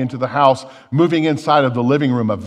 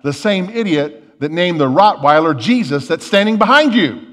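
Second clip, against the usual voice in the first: lightly acted parrot, louder; parrot retort; 3 semitones higher, 6 dB louder than usual. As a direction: build loudly to the punchline. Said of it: "the parrot chimes back".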